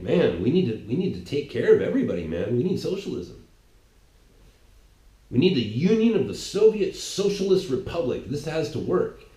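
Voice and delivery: earnest student zeal for socialism; lightly voiced eager young Stalin; idealistic young Stalin.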